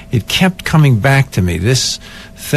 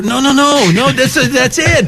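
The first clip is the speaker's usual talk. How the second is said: very high, repeated protest; excited insisting; 13 semitones higher than usual. Retold or imitated. Actor argues the spoiled take is the one, excited insisting. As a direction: override the objection, pitch way up. Actor overrules director, retold.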